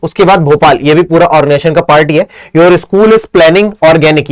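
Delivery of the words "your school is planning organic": slow reading. Shown as a demonstration. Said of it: "ये क्या हो गया यार?".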